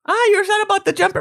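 put-on high voice humoring a child; acted consoling adult. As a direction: pitch up as if talking to a little one. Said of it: "Pero por eso digo".

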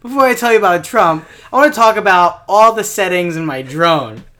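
loud fast rambling impression; hammed-up take on his friend; imitating co-host. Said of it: "you're doing Jin right now".

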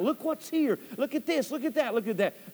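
lightly voicing thrilled kids pulling out toys; excited kids. Kids digging through gift boxes, mildly imitated excitement. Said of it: "They were so excited".

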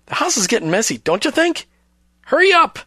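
needling, climbing high at the end; hammed-up impatience, pitch jumping up; mock nagging husband. Host voicing a husband nagging his wife, mock impatient.

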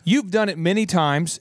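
ordinary talk, nothing marked

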